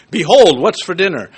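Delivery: mock proclamation with a loud "Behold"; mock biblical. Joking about asking for dinner in Bible talk, mock-emphatic. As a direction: punch out "Behold" as if announcing scripture at home. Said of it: "We don't talk that way".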